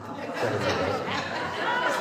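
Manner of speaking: real burst of loud laughter. Real, not acted. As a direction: burst out laughing at your own slip. Amused by her own slip.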